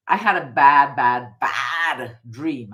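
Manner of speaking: slow, tearful, the words dragging; fighting back tears as the memory hits; voice breaking. Real, not acted. Telling viewers about the dark dream, voice cracking.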